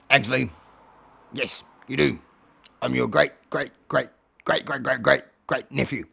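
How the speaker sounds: low, measured cat character; Alfie. Acted. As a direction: spell it out low, pausing between phrases. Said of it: "Alfie says".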